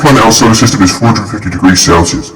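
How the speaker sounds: fast, eerie demon-possessed reading. Acted. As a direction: read it like something has taken you over. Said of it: "Possessed voice".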